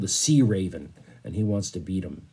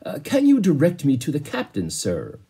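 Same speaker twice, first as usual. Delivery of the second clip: polite inquiry; 5 semitones higher than usual. Acted. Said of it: "and inquired".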